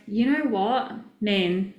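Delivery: a light Australian twang on you know what man; casual Australian accent, barely put on; mild Australian accent with a laugh; Aussie accent. Shown as a demonstration. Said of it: "I sound so Aussie".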